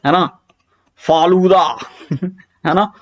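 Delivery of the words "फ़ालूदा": फालूदा begun with an f; nukta sound. Shown as a demonstration. Teacher giving an example word, nukta sound. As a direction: say फालूदा as "faalooda". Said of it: "नुक्ता लगा दिया".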